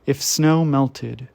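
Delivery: measured poetry recital, firm attack easing off; poem reading. Acted. Reader sharing a beloved poet's work, measured poem recital. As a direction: read each image out with deliberate pauses.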